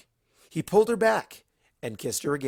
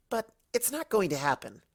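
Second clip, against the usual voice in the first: scolding; 9 semitones higher than usual. Acted. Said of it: "Twilight scolded".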